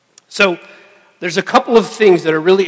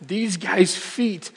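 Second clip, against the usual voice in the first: anxious inner voice; 4 semitones higher than usual. Retold or imitated. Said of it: "he's thinking".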